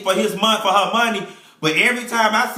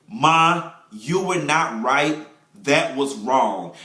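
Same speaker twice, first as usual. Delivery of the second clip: gentle correction; 5 semitones lower, slower than usual. Retold or imitated. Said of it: "wanting you to say".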